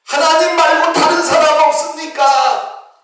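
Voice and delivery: very high, loud, sing-song yell; yelling for someone else. Retold or imitated. Deacon refuses God's answer and yells for anyone else, wailing. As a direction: belt it out like a comic wail. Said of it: "이렇게 소리를 질러요".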